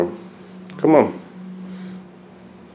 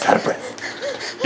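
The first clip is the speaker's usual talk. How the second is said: laughing; 7 dB quieter, much slower than usual. Real, not acted. Laughing whisper.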